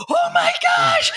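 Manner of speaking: high, drawn-out gasp of awe; a stunned, slow "oh my gosh" way up high; overwhelmed moviegoer reliving the landing, awed; awed exclamation. Retold or imitated.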